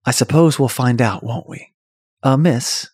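put-on British-accented smooth gentleman passenger; D B Cooper. Hijacker calling the stewardess over, in a British accent. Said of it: "that's a good accent".

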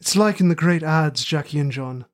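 put-on terrible working-class Midlands accent; rustic Midlands accent. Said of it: "in my terrible working-class rustic Midlands accent".

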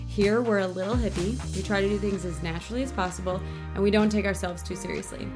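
upbeat, scripted welcome to listeners; polished podcast host opener; podcast intro read. Acted. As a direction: read the show intro with lift.

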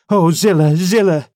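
a frightened plea; alarmed cry. A narrator's reading. Nelly, shocked, cries out to Zillah in alarm. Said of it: "I gasped".

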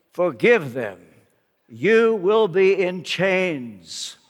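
put-on friend's grave charge, slow and deliberate, in own accent; slow, solemn quote. Friend counsels the hurt preacher to forgive, slow and solemn. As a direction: quote it slowly, pausing after each phrase. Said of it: "looked at me and said".

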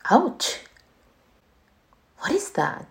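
startled by a bite; sudden pain. Acted. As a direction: yelp of pain, high. Bitten in the dream.

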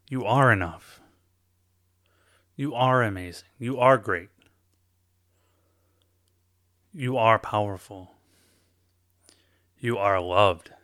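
loud, firmly declared; encouraging coach, loud; believing it. Real, not acted. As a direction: insist to them that it's true. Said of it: "like you believe it".

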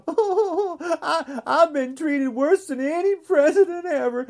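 a laughing, hammed-up whine like a spoiled child; whiny baby Trump. Podcaster mocking Trump as a whining baby, laughing mock whine. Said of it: "Little Donnie gets to whine".

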